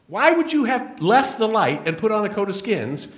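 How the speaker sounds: high, loud ringing preacher's cry; preaching shout. Real, not acted. Speaker challenging the audience about why they came, at full preaching force. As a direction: hurl the question out to the whole hall.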